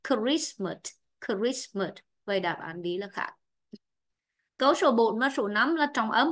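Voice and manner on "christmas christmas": "Christmas" starting on a clear k; hard initial k. Shown as a demonstration. Teacher showing how the word begins, careful pronunciation demo. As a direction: sound the k and the ending in "Christmas". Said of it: "từ này ta đọc là c".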